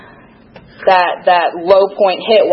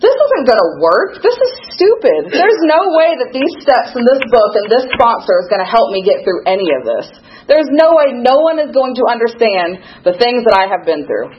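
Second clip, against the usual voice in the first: mocking her own past self, higher and scoffing; scornful inner voice; 5 semitones higher than usual. Recovering addict mocking her old dismissive thoughts, scornful. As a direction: scoff at the program like a know-it-all. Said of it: "just an idiot".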